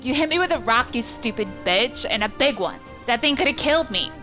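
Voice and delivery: outraged yell. Acted. Bully shouting at the old woman who hit him, high and loud. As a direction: yell at her through the pain.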